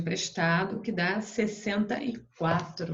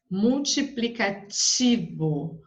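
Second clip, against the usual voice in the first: MULTIPLICATIVO slowly, with TI strong and long; stress on TI; much slower than usual. Shown as a demonstration. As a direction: lean on the TI in multiplicativo. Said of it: "até mais forte".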